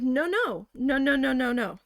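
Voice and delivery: insistent string of noes; indignant refusal. Retold or imitated. Retelling rejecting the boss's sale item excuse, indignant. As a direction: pile up the noes to shut down an excuse. Retold argument with boss.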